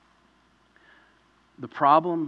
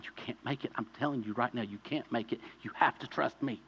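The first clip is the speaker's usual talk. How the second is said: soft plea from Jesus; 7 dB quieter than usual. Acted. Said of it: "Jesus saying".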